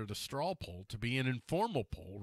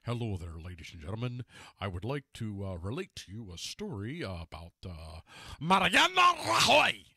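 mock newscaster; 4 semitones lower, 4 dB louder than usual. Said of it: "like, newscasters do".

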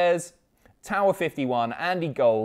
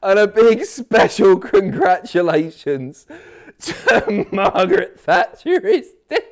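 cracking up as the name comes out, pitched up; laughing; 6 semitones higher, 5 dB louder than usual. Real, not acted. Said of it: "I'm, I'm crying".

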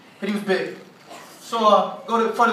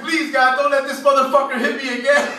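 higher-pitched mock-frightened begging; desperate plea; 5 semitones higher, 4 dB louder than usual. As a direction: beg heaven to spare you a hit. Acted desperate prayer before a punch.

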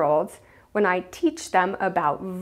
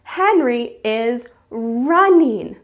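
high squealed yes, then slow proud sentence; delighted teacher praise; so excited; 5 semitones higher, 3 dB louder, much slower than usual. Acted. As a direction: cheer for a small child, stretching the words. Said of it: "I'll be so excited".

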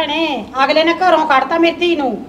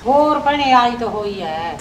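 slow reply sinking lower; listless, downcast; 3 semitones lower, slower than usual. Acted. Mother admits to a visitor her daughter is home, downcast. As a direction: let the answer sag, dispirited. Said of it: "ਐ ਢਿੱਲਾ ਜਾ ਬੋਲੀ ਤੂੰ".

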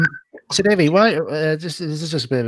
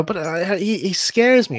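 mock scared whine; 5 semitones higher, slower than usual. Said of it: "people are all saying".

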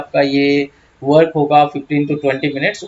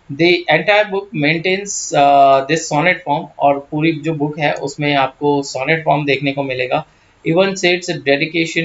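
very slow, measured reading of English notes; slow reading aloud; slower than usual. Acted. Teacher dictates English notes, very slow. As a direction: spell out each word for students.

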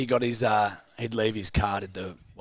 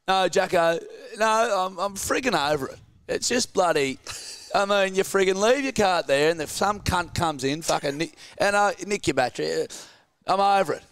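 put-on fed-up old man; 9 semitones higher than usual. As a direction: squawk the old man's complaint up high. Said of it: "And he goes".

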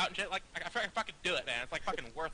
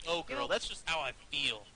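mocking echo; 2 semitones lower than usual. Mocks opponent's line just said.

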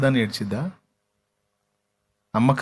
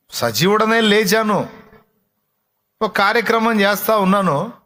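emphatic declaration; 8 semitones higher, 4 dB louder than usual. Acted. Jesus voiced, emphatic.

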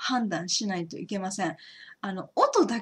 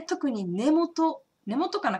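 ordinary delivery

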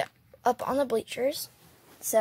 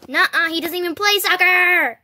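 indignant retort; 6 semitones higher, 6 dB louder than usual. Pretend. Dolls arguing over game.

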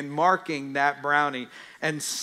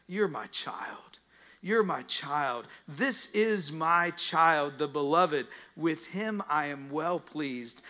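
tender voice; slower than usual. Acted. The heavenly voice to Jesus, slow and tender. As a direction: say it like a loving parent. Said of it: "The voice says".

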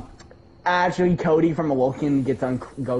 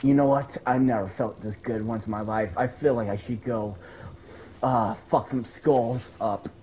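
Cody on crack voice; 9 semitones lower, 7 dB quieter than usual. Retold or imitated. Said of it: "Awoken Cody on crack".

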